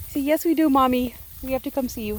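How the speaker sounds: put-on high, bright baby-animal voice answering Mommy; the sheep talking back to Mommy, high and cute; voicing the sheep. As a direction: speak for the lambs in a high little voice.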